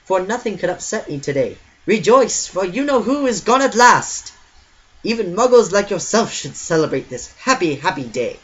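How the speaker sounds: put-on high, loud and gleeful little old man; squeaky old man voice. A narrator's reading. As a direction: crow it out with squeaky joy. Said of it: "in a squeaky voice".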